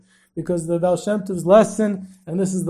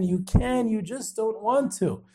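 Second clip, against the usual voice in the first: repeating to himself; 3 semitones higher, 6 dB quieter, slower than usual. Retold or imitated. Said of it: "he repeats it again and again".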